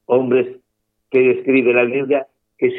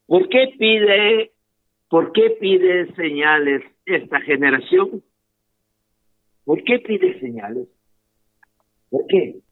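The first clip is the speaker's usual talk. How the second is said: groaning in spirit; 4 semitones higher, slower than usual. Acted. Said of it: "gimiendo en su espíritu".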